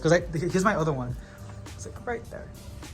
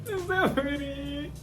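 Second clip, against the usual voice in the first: swooning; 11 semitones higher, much slower than usual. Real, not acted. Swooning over plant.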